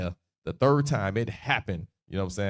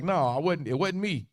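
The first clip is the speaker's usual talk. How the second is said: higher-pitched mock protest of innocence; genuine-sounding denial; 4 semitones higher than usual. Peter trying to get out of it, earnest mock denial. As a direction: deny it as if you mean it. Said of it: "he was genuine".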